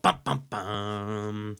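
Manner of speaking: mock dramatic "bum bum bum"; imitated cliffhanger sting. Co-host recalls last week's cliffhanger, mock dramatic sting. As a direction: intone a suspense sting, drawing out the last note. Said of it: "there was a big old".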